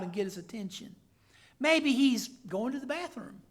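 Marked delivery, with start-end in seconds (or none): 1.6-3.4 sarcastic taunt. Retold or imitated. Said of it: "That's what he means".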